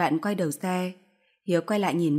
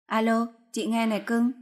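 smug, sing-song higher voice; a mistress gloating to the wife's mother, smug and higher; triumphant; 5 semitones higher than usual. Acted. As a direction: gloat sweetly down the phone. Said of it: "bằng một giọng đắc thắng".

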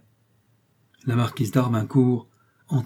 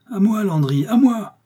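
much higher, louder call for help; thundering call; 11 semitones higher, 5 dB louder than usual. A narrator's reading. Enraged marquis summoning his farmer, thundering shout. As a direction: bellow for your servant to come. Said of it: "d'une voix tonnante".

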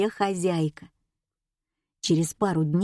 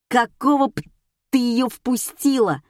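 loud, higher, outraged demand; indignant; 4 semitones higher, 4 dB louder than usual. A narrator's reading. Alisa turns on Vera for letting Oksana in, indignant. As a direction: swear and demand an explanation. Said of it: "возмутилась Алиса".

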